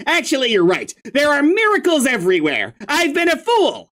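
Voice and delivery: sarcastic grumpy troll. Acted. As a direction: spit sarcasm, voice pitched high.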